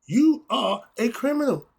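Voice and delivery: lightly voiced host announcing the verdict; Maury Povich voice. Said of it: "in my Maury Povich voice".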